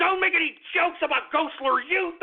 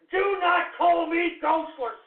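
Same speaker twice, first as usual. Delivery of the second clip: every word hammered out slowly and raised; slow angry shout; 2 semitones higher, slower than usual. Real, not acted. Host ordering callers never to use the nickname, slow angry shout. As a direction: lay down the law, word by word.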